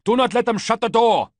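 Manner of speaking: bellow. A narrator's reading. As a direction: keep bellowing at the top of the voice. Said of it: "bellowed Ballista".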